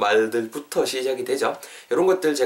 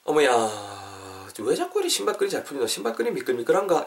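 puzzled grumbling; 4 dB quieter than usual. Acted. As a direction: play someone fretting over a small nuisance. Acted grumbling over loose laces.

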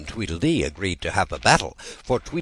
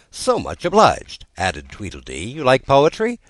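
high, eager little twin; prim schoolboy voice; Tweedledee voice; 6 semitones higher, 5 dB louder than usual. Acted. Tweedledee speaks.

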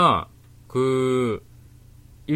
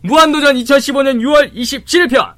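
loud, high reveal; excited announcement; 11 semitones higher, 10 dB louder than usual. Acted. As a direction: announce the winner with fanfare. Big reveal of recommendation.

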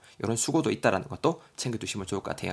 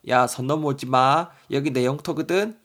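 mock childish squabble; 2 semitones higher, 4 dB louder than usual. Kid quarrel over desk line.

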